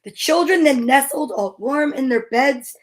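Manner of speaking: measured, rhythmic picture-book narration; storybook read-aloud. A narrator's reading. Reader reading preschool story to little kids, measured rhythmic narration. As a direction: read the rhyme slowly to small children.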